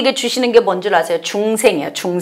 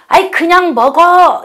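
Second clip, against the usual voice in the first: dismissive husband; 6 semitones higher, 6 dB louder, slower than usual. Retold or imitated. Husband brushing off wife's complaint.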